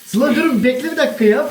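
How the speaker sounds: high, loud call to stop her; calling after. Real, not acted. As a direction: call her back, half laughing. Calling after fleeing friend.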